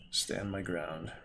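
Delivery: ordinary delivery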